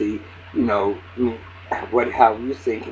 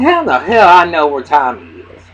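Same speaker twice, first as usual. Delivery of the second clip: mock outraged yell; 4 semitones higher, 10 dB louder than usual. Retelling Tasha's angry denial.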